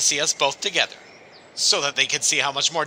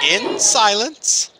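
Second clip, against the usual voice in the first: stern teacher order; 6 semitones higher, 3 dB louder, much slower than usual. Acted. Teacher ordering class before leaving.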